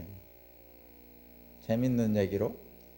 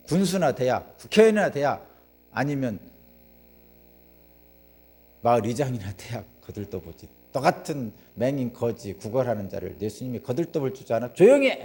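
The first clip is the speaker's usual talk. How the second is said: scornful rebuke. Retold or imitated. Bystanders mocking the blind beggar, mild scorn rising to a shout. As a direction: sneer down at the beggar, then bark at him.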